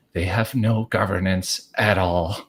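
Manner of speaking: a scared goblin blurting it out; quivering fear. Acted. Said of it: "quivers a little bit afraid".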